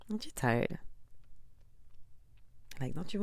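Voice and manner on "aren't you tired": pitched well up, pleading; emphatic higher repeat. Real, not acted. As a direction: push the question up high to shake them. Asks listeners, then repeats.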